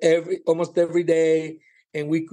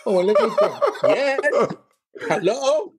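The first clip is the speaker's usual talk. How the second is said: higher, laughing sarcastic reply; mock sarcasm; 7 semitones higher than usual. Comedian retells mocking the clerk's offer, laughing and sarcastic. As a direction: feign thinking it over, then an obvious yes.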